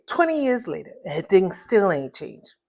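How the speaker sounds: plain reading voice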